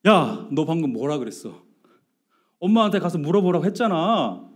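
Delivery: contained retold scolding; rising irritation. Dad to son who snubbed him, rising irritation. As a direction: scold with anger just starting to rise. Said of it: "뚜껑이 확 올라오는 거예요".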